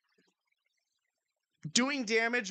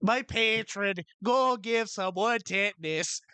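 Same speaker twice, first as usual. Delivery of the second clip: patron voice; 4 semitones higher, 3 dB louder, slower than usual. Retold or imitated. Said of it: "sounds like something's like".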